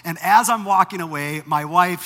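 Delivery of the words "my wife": ordinary delivery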